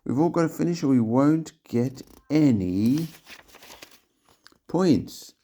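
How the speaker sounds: high loud scolding yell; angry yell. A narrator's reading. Giles yelling at Tim and Biscuits, high angry. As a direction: tell them off across the water. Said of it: "Giles yelled".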